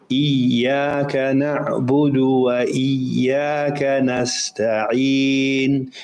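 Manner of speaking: slow Iyyaka na'budu with a doubled ya; slow recitation with shadda. Shown as a demonstration. Teacher reciting Iyyaka na'budu correctly and slowly. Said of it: "Ya with the shadda".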